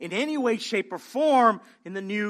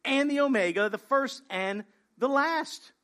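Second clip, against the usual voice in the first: solemn voice of God; 3 semitones higher than usual. Acted. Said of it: "He says".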